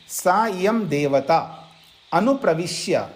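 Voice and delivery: सा इयं देवता अनुप्रविश्य spaced out slowly, each word set apart. Shown as a demonstration. Teacher slowly spells out the Sanskrit phrase for students, slow and separated. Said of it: "देखिए".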